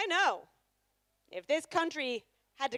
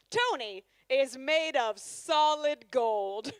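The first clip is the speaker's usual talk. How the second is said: mock TV show narration. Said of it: "Here is my impression of any of the featured couples".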